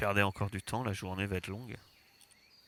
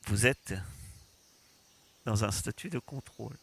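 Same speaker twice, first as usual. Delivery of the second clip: metallic drone announcement; flat machine warning; robot voice; 4 dB quieter than usual. Acted. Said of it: "Vous entendez une voix métallique".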